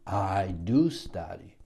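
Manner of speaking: "I do study" with a firm push on I and DO; emphatic English form. Shown as a demonstration. Teacher shows English emphatic present, weight on I DO. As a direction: hit "I do" firmly before "study". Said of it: "in English you do, uh, adding do".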